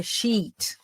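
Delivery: "sheet" with a long, drawn-out ee; long vowel. Shown as a demonstration. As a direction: stretch the ee in "sheet". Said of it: "E aí é o elongo". ("sheet" com o i bem longo)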